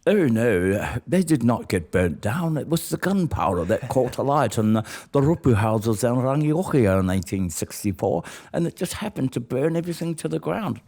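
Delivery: put-on posh English colonial accent. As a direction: deny it all in an English accent. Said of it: "That's a brilliant English accent".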